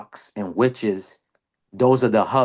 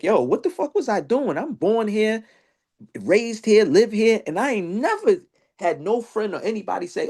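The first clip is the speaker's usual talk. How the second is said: much higher, worked-up rant; self-scolding rant; 10 semitones higher than usual. Retold or imitated. Scolding himself for going to Salem, high and worked up. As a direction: berate yourself, pitch way up.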